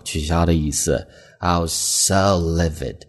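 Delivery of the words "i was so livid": so drawn out and slow; teacher stressing so in the example. Shown as a demonstration. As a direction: lean on so to sound furious. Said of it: "同样去强调so这样的一个单词".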